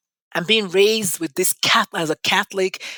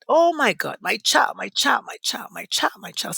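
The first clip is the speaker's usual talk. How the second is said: excited mother. Retold or imitated. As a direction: gush over the child, then trail off. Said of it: "I was so excited".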